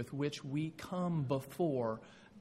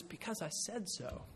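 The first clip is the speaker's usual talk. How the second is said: firm parental reply; 4 semitones higher, 11 dB quieter than usual. Retold or imitated. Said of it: "The correct response is".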